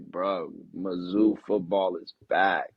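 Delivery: drawn-out mock hype of a fan; acted fan celebration. Student on the bench thinking Mizzou is back, mock celebration.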